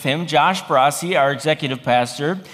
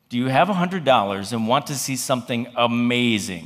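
lower, hushed-down offer from the guide; guide's pitch; 6 semitones lower, 3 dB quieter than usual. Retold or imitated. Guide leans back to offer the pastors an adventure, imitated low. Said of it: "he said it just like that".

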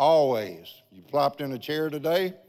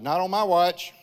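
firm, raised retort, a little higher; defiant retort; 4 semitones higher, 4 dB louder than usual. Retold or imitated. Pastor retelling his reply to the stroke message, firm and raised. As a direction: flatly refuse the threat. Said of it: "And I said".

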